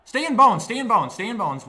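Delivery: pleading yell that dies down; desperate yelling, fading. Real, not acted. Gamer begging his player to stay in bounds, yelling. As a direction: yell at the screen then let it sink.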